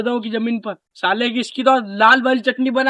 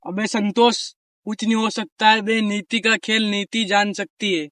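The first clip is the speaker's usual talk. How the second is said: defeated and resigned; 7 dB quieter than usual. Real, not acted. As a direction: say it like he has given up on the land. Land lost, resigned to defeat. (धीमी, हारी हुई उदास आवाज़)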